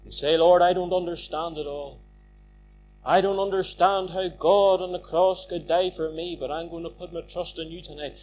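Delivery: soft, low sinner's prayer; quiet prayer. Shown as a demonstration. Preacher giving the sinner's prayer to pray, soft and low. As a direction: hush down and pray it gently.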